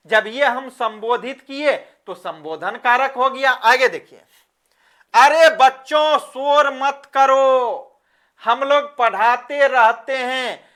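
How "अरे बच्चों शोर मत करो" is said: scolding call. Shown as a demonstration. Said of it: "मैंने चिल्लाया और जोर से बोल दिया".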